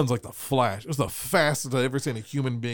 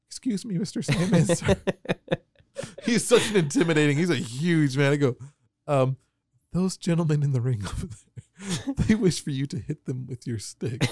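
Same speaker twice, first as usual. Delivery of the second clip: mock polite. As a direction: act meek before the huge man. Timid polite address to Sandman.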